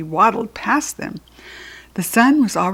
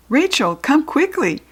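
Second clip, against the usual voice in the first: calling out; 7 semitones higher than usual. A narrator's reading. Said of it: "she called".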